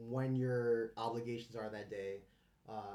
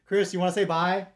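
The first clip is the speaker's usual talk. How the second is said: calling out; 6 semitones higher, 15 dB louder than usual. Real, not acted. Calling someone from another room.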